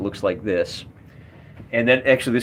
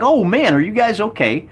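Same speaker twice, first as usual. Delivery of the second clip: concerned orc; 9 semitones higher than usual. Acted. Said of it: "They're like".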